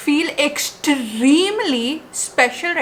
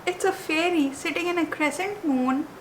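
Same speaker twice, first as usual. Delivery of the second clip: hushed awe; 3 semitones higher, 7 dB quieter than usual. Real, not acted. Hushed admiration of a charm.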